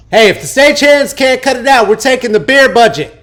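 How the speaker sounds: mock call-out. Host calling out the noisy stagehands, mock loud. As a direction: yell across the room in jest.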